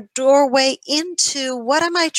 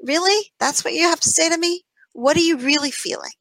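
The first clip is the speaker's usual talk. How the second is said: higher, quick questioning; mock disbelief; 6 semitones higher than usual. Turning to her inner critic, higher and questioning. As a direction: confront the voice, pitched up. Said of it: "I'll turn to that voice and go".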